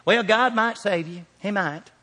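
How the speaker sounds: mimicking a hedging, unconvinced believer; mock doubtful. Preacher imitating timid believers on salvation, mock doubtful. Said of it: "hearing people say it like this".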